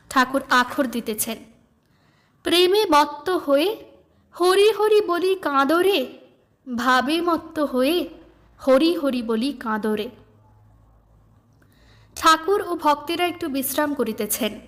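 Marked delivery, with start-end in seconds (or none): 2.4-10.1 recited song verse. Acted. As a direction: read the hymn as gentle verse.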